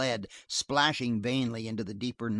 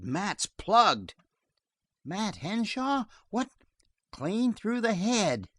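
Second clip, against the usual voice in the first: shocked posse man; 8 semitones higher, slower than usual. A narrator's reading. Posse man reports a death.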